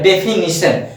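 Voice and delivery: डेफिनेशन said "de-fi-NI-shan"; correct pronunciation. Shown as a demonstration. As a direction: say डेफिनेशन with short "ni" in the third syllable. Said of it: "डेफिनेशन सही सही बोलोगे".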